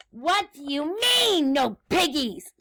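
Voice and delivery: high, swooping outraged screech; witch's screech. Acted. Witch confronts chicken over missing piggies, outraged screech. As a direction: swoop up in mock fury. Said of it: "Grinch screeched".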